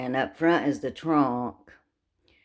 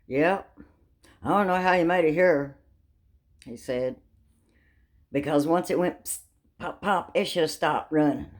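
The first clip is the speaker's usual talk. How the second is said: attendant marveling; 3 semitones higher than usual. Retold or imitated. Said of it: "He goes".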